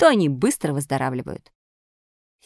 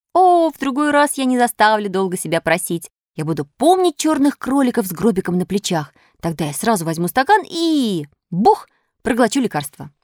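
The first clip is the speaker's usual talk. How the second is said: lightly voiced puppet, animated; earnest promising puppet; 4 semitones higher than usual. Puppet promising fairy to take medicine, earnest. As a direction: promise with lively conviction.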